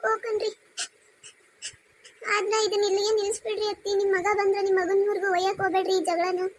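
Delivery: daughter-in-law pleading meekly; meek apology. Acted.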